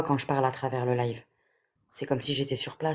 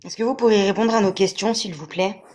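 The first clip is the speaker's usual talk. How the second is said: calling out; 4 semitones higher, 5 dB louder than usual. Real, not acted. Calling out to the spirit.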